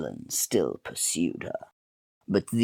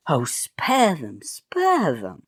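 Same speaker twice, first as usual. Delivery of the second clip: high slow pleading; hammy plea; pleading maiden; 8 semitones higher, 4 dB louder, slower than usual. Acted. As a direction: beg like a melodrama heroine. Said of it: "said the maiden".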